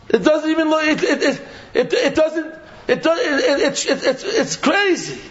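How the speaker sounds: high, laughing through the words; can't stop laughing at the absurdity; laughing disbelief. Real, not acted. Laughing while mocking fake advertising.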